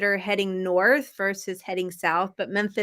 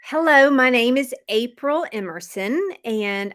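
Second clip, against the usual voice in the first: Southern accent. Shown as a demonstration. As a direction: lay on a really thick Southern accent, stretching the words. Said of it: "use my Southern accent".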